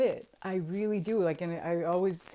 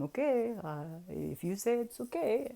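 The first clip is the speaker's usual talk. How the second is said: imitated wizard; 2 semitones higher than usual. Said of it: "And then I say one more time".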